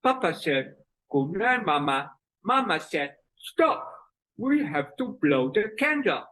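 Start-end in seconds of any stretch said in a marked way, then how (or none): 1.1-2.1 father talking out of the left side; lightly voiced lopsided-mouthed papa; mouth twisted left. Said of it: "His mouth is twisted to the left". 3.4-6.2 mother talking out of one side; lopsided-mouthed mama, high start on the first word; mouth twisted right. Acted. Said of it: "Twisted to the right".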